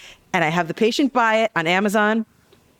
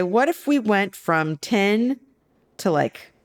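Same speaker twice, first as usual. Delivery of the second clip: slow, coy proposal; slower than usual. Retold or imitated. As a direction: stretch it out, teasing and deliberate. Slyly proposing a tiny dose cut.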